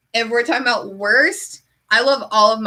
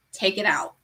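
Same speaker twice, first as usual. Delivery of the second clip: deadpan; 4 semitones lower, 5 dB quieter than usual. Retold or imitated. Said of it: "I say it exactly like that".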